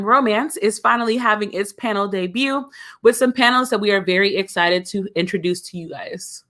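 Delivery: crisp formal cabin announcement; flight attendant voice. Acted. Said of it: "flight attendant voice on".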